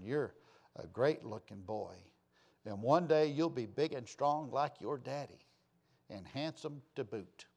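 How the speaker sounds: lightly voiced, soothing a crying son; tender mother. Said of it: "She said".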